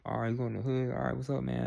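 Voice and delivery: mock hood slang voice, evenly run together; stereotyped street talk. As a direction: imitate a stereotype of casual street greetings. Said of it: "You have to talk this way".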